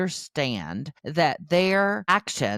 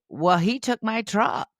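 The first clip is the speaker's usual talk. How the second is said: put-on higher, drawn-out little-kid complaint; acted-out slow, higher protest; protesting child; 7 semitones higher, 3 dB louder than usual. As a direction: play a small child defending himself. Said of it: "And Luke's gonna say".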